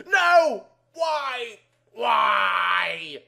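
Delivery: loud, high cries breaking into a sob; anguished cry. A narrator's reading. Addict girl fighting the pills, crying and shouting. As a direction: wail it in despair.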